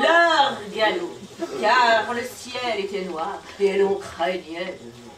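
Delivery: declaimed verse with drawn-out words; stagey poetry delivery; poem recitation. Acted. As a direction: recite it theatrically to an audience.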